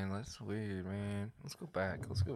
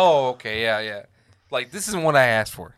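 loud, put-out voice of a let-down stranger; mock disappointed recipient; 2 semitones higher, 10 dB louder than usual. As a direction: play the guy who opened the wrong picture, louder. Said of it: "be like".

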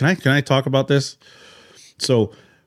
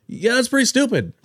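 laughing quote; 13 semitones higher than usual. Retold or imitated. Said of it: "He's like".

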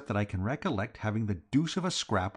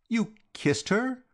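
astonished; 12 semitones higher, slower than usual. A narrator's reading. Reggie astonished at George's confession.

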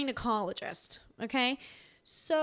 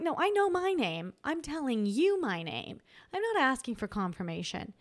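sassy; 4 semitones higher than usual. Retold or imitated. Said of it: "I was getting sassy at this point".

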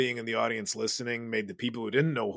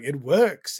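mock French accent, loud rising "works"; badly faked French accent saying "works"; 4 semitones higher, 10 dB louder than usual. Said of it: "That's not a French accent".

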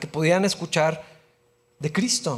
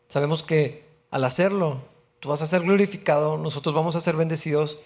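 prayer voice, earnest and steady; oración. Acted. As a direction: pray over the congregation, softening toward the end. Closing prayer after the sermon. (oración pastoral serena que se apaga al final)

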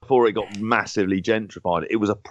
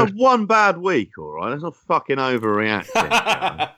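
mock defensive; 6 semitones higher, slower than usual. Real, not acted. Defending himself after teasing.

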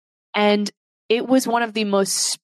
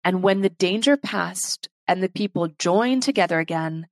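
choked up. Real, not acted. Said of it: "I'm getting choked up here".

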